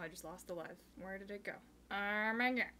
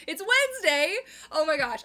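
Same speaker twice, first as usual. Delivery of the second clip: surprised realization; 6 semitones higher, 12 dB louder than usual. Real, not acted. Realizes it is Wednesday there.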